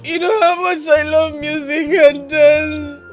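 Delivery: tearful apology. Acted. Sister scolds, she weeps apologizing.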